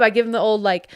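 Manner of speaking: normal talking voice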